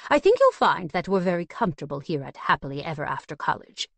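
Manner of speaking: lightly posh, measured butler; refined butler. Acted. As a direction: speak like a prim butler. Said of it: "he said in his refined tone".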